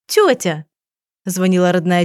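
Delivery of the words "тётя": surprised, delighted cry of "Тётя"; exclaiming. A narrator's reading. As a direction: call out "Тётя!" with glad surprise. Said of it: "и воскликнула".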